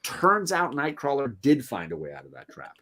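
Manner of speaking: gloating villain. Acted. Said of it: "Arcade laughing and giggling".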